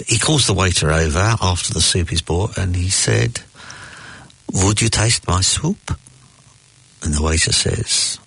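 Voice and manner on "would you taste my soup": lightly voiced old Jewish diner; a hint of an elderly joke character; old man. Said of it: "An old man is in a restaurant".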